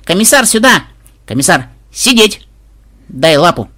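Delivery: high, loud commands to a pet; squealing girl. A narrator's reading. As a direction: call out excitedly to the little dragon. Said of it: "с визгом бежала внучка". (звонкие команды внучки питомцу)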